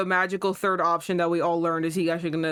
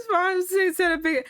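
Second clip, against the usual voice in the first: worked-up rant; 8 semitones higher than usual. Real, not acted. Ranting at the racist character.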